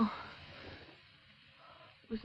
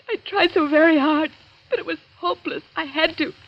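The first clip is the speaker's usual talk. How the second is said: tearful; 4 semitones higher than usual. Acted. Julia telling Laura of the picture, crying. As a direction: voice breaking into crying.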